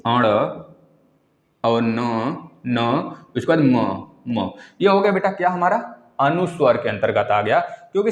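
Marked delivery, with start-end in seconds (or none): 2.7-4.0 न and म spelt out slowly; slow nasals. Shown as a demonstration. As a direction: sound न and म slowly through the nose. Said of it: "अंग".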